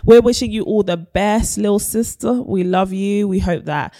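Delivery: high and loud, cheery sign-off; bright upbeat host voice. Real, not acted. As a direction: lift it up like a presenter. Upbeat podcast sign-off and segue.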